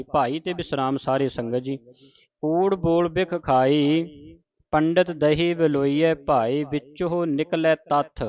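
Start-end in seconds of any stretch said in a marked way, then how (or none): 2.4-8.2 slow, measured recitation with drawn-out vowels; scripture recitation. Shown as a demonstration. Teacher reciting a shabad for the congregation, slow measured recitation. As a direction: recite the sacred verse slowly, stretching line endings.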